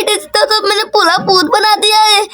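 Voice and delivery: words broken by giggles; can't stop laughing while explaining; laughing through words. Acted. Girl admits she made her friend a ghost, laughing.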